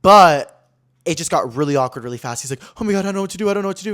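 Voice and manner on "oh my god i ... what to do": higher, mildly panicked voice; mock helpless dithering; retold fluster. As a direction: imitate a man at a loss. Retold flustered man in awkward scene.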